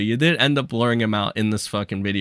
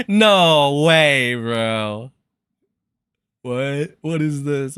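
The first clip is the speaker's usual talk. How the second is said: real disbelief; 3 semitones higher, 7 dB louder, much slower than usual. Real, not acted. Streamer seeing unexpected news, loud surprise. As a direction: blurt it out, caught off guard. Reacting to Keemstar's Twitter.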